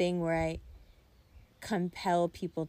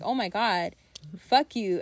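louder, mock-angry retort; retold anger; 6 dB louder than usual. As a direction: act out being mad at a boyfriend, loudly. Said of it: "I got mad".

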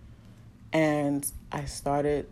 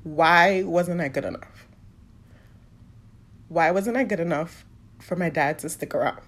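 tearful. Real, not acted. Asking her mom why her dad left, close to tears. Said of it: "I'm trying not to cry".

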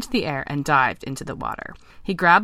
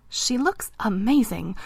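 smitten frog, high and slow; slow, higher-pitched admiring frog; croaking frog; 6 semitones higher, slower than usual. Acted. Vince admiring the weeping princess to his frog friends, croaking. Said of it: "croaked Vince".

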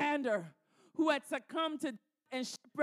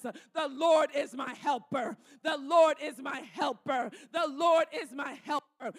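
louder, bold, punching "Lord" each time; bold declaration; 6 dB louder than usual. Shown as a demonstration. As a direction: declare it boldly like a battle cry. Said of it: "Somebody get up and say that with boldness".

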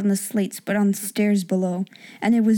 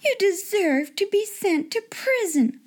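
slow high scolding; stern headmistress; 9 semitones higher than usual. A narrator's reading. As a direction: lay down the sentence coldly. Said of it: "said Miss Minchin's voice".

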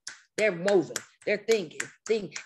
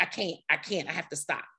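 softer, sinking retold defeat; flustered giving up; 3 semitones lower, 5 dB quieter, much faster than usual. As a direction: act out quitting, voice dropping away. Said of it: "then I get flustered".

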